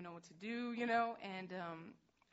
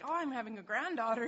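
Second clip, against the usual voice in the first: much louder, higher gushing; ecstatic mom; 4 semitones higher, 11 dB louder than usual. Retold or imitated. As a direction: imitate a thrilled grandmother-to-be. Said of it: "my mom's ecstatic".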